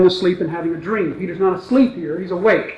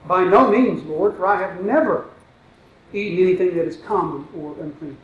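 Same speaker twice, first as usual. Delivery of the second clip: quiet reread; 7 dB quieter than usual. Shown as a demonstration. Preacher rereads the verse to his congregation, quiet and deliberate. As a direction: let each word land gently. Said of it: "Let me read it again".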